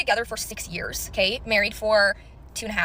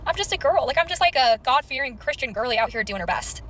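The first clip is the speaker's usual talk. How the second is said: put-on innocent girly voice; 3 semitones higher than usual. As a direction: play the naive good girl, slowing down. Self-mocking innocent girl voice.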